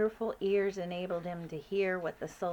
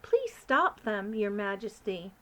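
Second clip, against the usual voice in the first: put-on pleading girl; 4 dB louder than usual. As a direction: beg the Queen. Sophie pleads.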